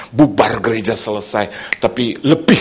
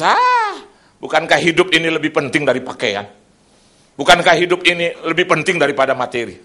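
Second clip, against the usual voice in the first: tearful plea; 3 semitones higher than usual. Acted. Quoting Christ, voice breaking.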